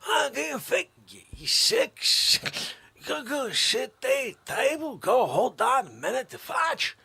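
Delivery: hammed-up furious dad; mock outrage. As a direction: wail it in exaggerated fury. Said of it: "I said".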